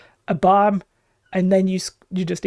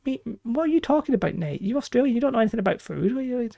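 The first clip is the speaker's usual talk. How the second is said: mock outrage; 3 semitones higher, 5 dB quieter than usual. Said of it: "I'm winding him up".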